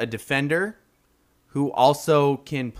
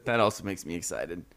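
talking through laughter; laughing; 6 semitones lower, 4 dB quieter than usual. Real, not acted. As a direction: laugh while saying it. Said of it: "Too excited".

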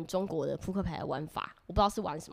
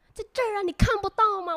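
put-on much higher, louder, incredulous Beijing-accented jab; scoffing Beijing accent; 14 semitones higher, 9 dB louder than usual. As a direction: imitate him as if asking whether she is blind. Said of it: "他的语气很像是说：“你瞎了吗？".

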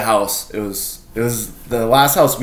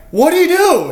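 very high, loud acted question; alarmed yell; 6 dB louder than usual. Storyteller asks friends about the intruder, acted yell. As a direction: shout it over riled-up friends.

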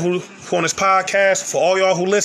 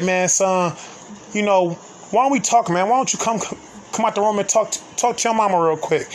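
lightly voiced mom, higher pitch; pleading mother; 4 semitones higher than usual. Retelling his mother asking him to talk, lightly pleading. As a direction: gently coax in a slightly raised voice.

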